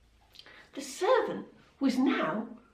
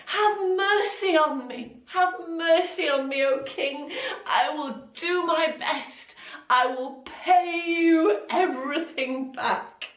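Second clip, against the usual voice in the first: pleading servant; 5 semitones higher than usual. Acted. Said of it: "and he begged".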